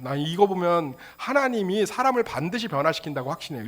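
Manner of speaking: normal talking voice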